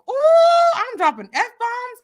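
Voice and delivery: high mock yell at herself; hammed-up outburst; mock shout. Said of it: "cussing like a".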